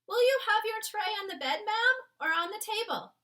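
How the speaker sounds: a maid greeting the Queen politely; oldish maid. Acted. The maid greets the Queen in the morning, oldish respectful voice. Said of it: "the voice of an oldish person".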